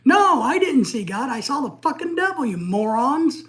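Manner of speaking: angry retort. Retold or imitated. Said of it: "You know, I'm like".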